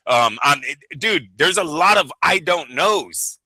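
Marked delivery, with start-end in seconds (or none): 2.2-3.4 slow, drawn-out mock "I don't knows"; mocking crooked-smile answer. Mocking an evasive official's answer, slow smirking drawl. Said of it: "with a lot of crooked smiles".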